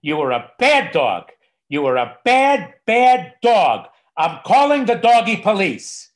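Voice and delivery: loud, high-pitched scolding of a dog; mock yelling. Mel Brooks yelling at his dog through the story, mock yell. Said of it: "yelling at his dog".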